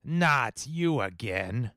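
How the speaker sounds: slow robotic shifted voice; frequency-shifted voice. Acted. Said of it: "maybe a frequency shifter".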